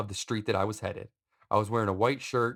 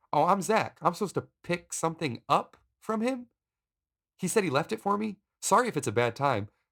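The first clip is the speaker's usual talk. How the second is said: safest-sounding, harmless, polite voice, pitched up; 8 semitones higher than usual. Retelling answering a suspicious woman at a screen door: retelling own safest-sounding voice. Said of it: "I say in my safest sounding voice".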